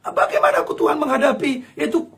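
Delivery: tearful half-laughing prayer; pleading prayer. Acted. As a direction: beg God for help, emotional. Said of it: "ngomong sama Tuhan".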